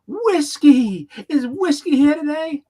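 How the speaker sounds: cheery teacher. Retold or imitated. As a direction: call the roll with a big grin. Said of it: "the teacher just looks up with a big smile".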